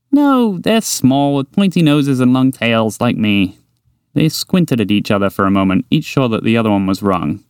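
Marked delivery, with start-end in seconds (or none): 0.1-3.6 eager little mouse. Acted. Mouse insists on its looks.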